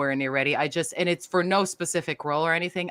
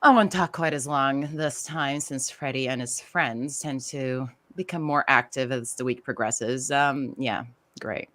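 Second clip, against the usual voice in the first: disdainful phone guy; 3 semitones lower than usual. Shown as a demonstration. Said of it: "I actually brought up some lines".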